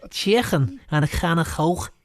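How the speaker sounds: mock Scouse accent. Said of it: "he's got the Scouse accent down".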